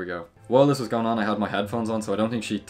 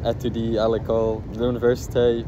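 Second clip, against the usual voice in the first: halting try at French pronunciation, louder; attempted French; 2 semitones higher, 5 dB louder than usual. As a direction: have a go at French as a learner. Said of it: "I tried to speak French".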